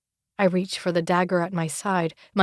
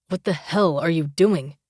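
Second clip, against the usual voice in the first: angry demand; 3 semitones lower than usual. Acted. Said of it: "his eyes fill with anger".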